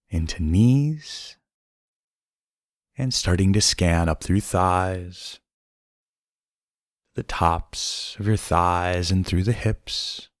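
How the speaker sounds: unhurried meditation voice with long pauses; guided meditation. Acted. Host guiding listeners through breaths and body scan, calm guided meditation.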